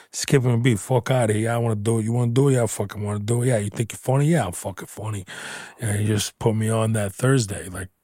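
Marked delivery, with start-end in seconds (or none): 0.8-5.3 lightly put-on Italian wiseguy accent; imitated Italian accent. Young comic and club owner sparring, mock Italian accent. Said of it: "start doing the Italian accent".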